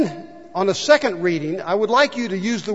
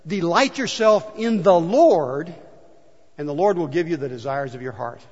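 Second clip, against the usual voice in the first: scripture reading. Shown as a demonstration. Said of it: "Psalm thirty-seven says".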